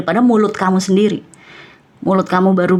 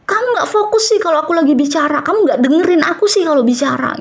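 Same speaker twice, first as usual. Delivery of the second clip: high, fast irritated scolding; imitating a hot-tempered retort; mock angry complaint; 8 semitones higher than usual. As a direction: rush out the annoyed reproach. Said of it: "Mungkin kamu langsung marah".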